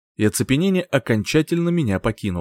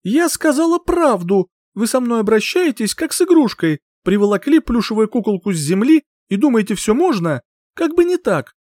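high, loud defiant shouting; 11 semitones higher, 3 dB louder than usual. Acted. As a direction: shout over a roaring dragon. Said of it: "закричала, пытаясь переорать рёв".

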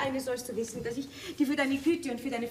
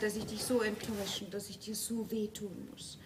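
fading apology; 5 semitones lower, 7 dB quieter than usual. Acted.

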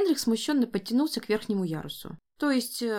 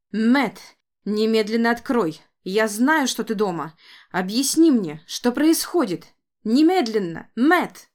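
furious demand; 7 dB louder than usual. Acted. Banging on door demanding.

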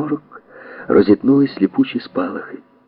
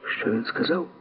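much softer, puzzled rising hush; surprised whisper; 8 semitones higher, 11 dB quieter than usual. Acted. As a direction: whisper your surprise to a friend. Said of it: "здивовано прошепотів Форд".

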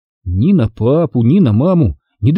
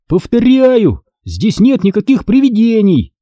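high, raised shout at little brother; acted yell; 9 semitones higher than usual. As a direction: yell it, fed up. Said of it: "заорал я".

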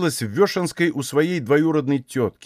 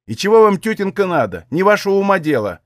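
sharp, higher and louder burst; irritated retort; 6 semitones higher, 4 dB louder than usual. A narrator's reading. Tearful Aksinya snaps at her prying aunt. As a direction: snap back to end the questions.

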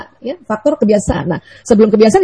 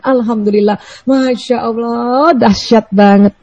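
slow drawn-out "Masya Allah, dahsyat banget"; awed praise; slower than usual. Shown as a demonstration. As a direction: savour each word in wonder. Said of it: "harus senantiasa ucapkan".

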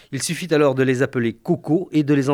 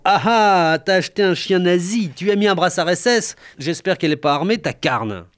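sneering laugh; 5 semitones higher than usual. Retold or imitated. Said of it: "il m'a dit en ricanant".

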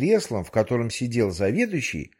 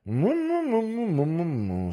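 hum; 6 semitones higher than usual. Acted. The manager hums.

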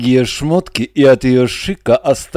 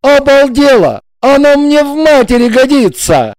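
loud, higher angry retort; 12 semitones higher, 5 dB louder than usual. A narrator's reading. Igor angrily rebuts Regina, loud and higher. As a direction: snap back in anger. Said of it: "рассердился Игорь".

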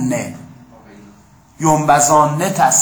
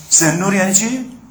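ordinary talk, nothing marked

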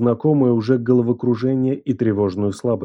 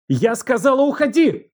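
much higher, voice cracking into a screech; breaking into a shriek; 12 semitones higher than usual. A narrator's reading. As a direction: throw him out, losing control. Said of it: "Голос её сорвался на визг".

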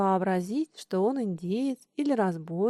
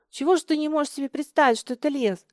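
a quick, raised, indignant demand; 4 semitones higher, 3 dB louder, faster than usual. Acted. Лёня scolds Миша who cannot imagine the forest, indignant. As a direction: push it fast, fed up with him. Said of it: "негодовал Лёня".

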